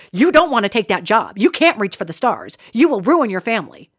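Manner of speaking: a hint of a scolding parent. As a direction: mildly lecture like a disapproving parent. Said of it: "Same tone".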